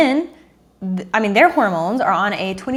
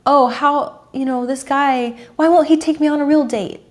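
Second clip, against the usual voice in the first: put-on whiny girl; 5 semitones higher than usual. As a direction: imitate a girl complaining about a guy, pitched up. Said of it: "I hear this girl talking about".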